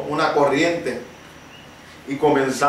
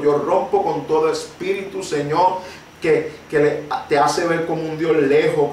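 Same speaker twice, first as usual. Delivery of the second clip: prayer; 3 semitones lower than usual. Acted. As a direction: pray it over the listeners, calm and firm. Closing prayer.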